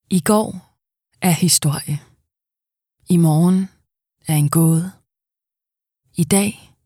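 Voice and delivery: poetic reading. Acted. Voice actor reading a poetic quote, spaced out. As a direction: let each phrase hang.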